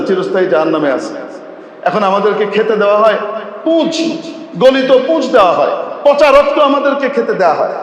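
rising accusing complaint; bitter complaint. Acted. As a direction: reproach the leader who lied. Damned accuse their leader. (জাহান্নামীদের নেতাকে অভিযোগ, তিক্ত কণ্ঠে)

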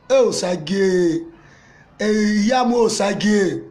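slow, drawn-out calling of the name; mock lament. Friend pities disgraced Osage, slow mock lament. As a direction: stretch out his name in mock pity.

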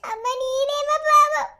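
slow, broken weeping; slow sobbing. Acted. Daughter weeping for her beaten mother, slowly. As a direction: sob out her name.

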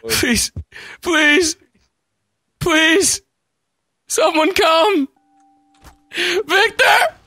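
pleading calls; yelling across the room. Pretend. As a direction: call out for help. Calling for help.

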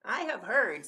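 high animal character voice; Badger's voice. A narrator's reading. Badger challenging the Snorklum, high character voice. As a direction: offer a rumour as a challenge. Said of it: "said Badger".

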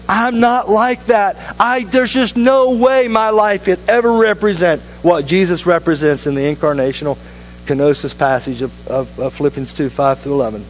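despairing admission. Retold or imitated. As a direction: sigh it out as if it's impossible. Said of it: "looks at Jesus and says".

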